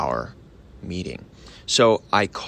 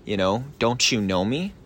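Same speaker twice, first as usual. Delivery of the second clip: lightly chummy and knowing; familiar, friendly; 2 semitones higher than usual. Shown as a demonstration. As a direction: nudge them as if they should remember you. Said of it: "you wanna say it like".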